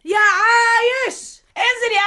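slow, drawn-out call; woman calling Ayesh down from upstairs. Acted. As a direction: stretch the name to reach upstairs.

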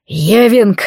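громкий яростный окрик; взреви имя во весь голос; рёв. Acted. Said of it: "взревел я". (яростный крик)

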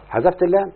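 teacher stressing اللام so students notice the dropped letter, emphatic. Shown as a demonstration. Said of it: "يا مولانا انتبه".

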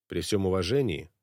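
gentle, unhurried reply; soft and calm. Acted. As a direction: keep it soft, never raise it. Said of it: "Моран говорил мягко, не повышая голос". (мягко, не повышая голоса)

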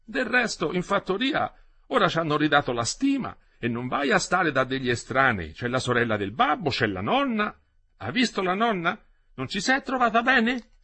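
high, loud coaxing country grandmother; old grandmother urging. Acted. Grandmother coaxing the boy to stay, high and loud. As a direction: press the boy kindly but firmly, up high.

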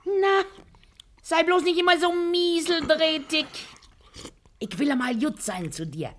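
coaxing. Acted. Coaxing husband, raised voice.

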